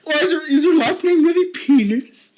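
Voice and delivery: laughing at the silly surname; giggling tease. Real, not acted. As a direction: barely hold in the laughter. Teasing question with laughter.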